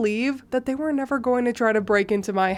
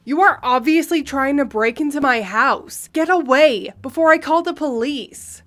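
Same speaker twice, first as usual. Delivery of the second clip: lightly voiced indignant mother, pitched up at the end; indignant entitled mother; 2 semitones higher, 4 dB louder than usual. Entitled mother warns off the homeowner, indignant. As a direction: accuse an intruder, with rising force.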